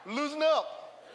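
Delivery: drawn-out loosen up; slow, emphatic repeat-after-me; slow call-and-response. Shown as a demonstration. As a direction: say it slowly for them to repeat. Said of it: "Say the word with me".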